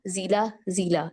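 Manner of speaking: जिला slowly, with a brief final ला; careful slow जिला, short ending. Shown as a demonstration. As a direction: model जिला twice, last vowel short. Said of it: "इस तरह sounds बनाया करें".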